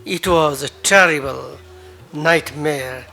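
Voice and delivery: dramatic poetry reading with rising passion; poem recital. Acted. Poet reciting his own verse to an open mic crowd, dramatic. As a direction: recite the poem, swelling on the big lines.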